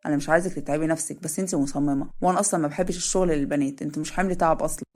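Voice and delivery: easygoing older man, lightly voiced; lightly voiced Adham.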